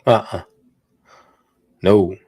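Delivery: ordinary talk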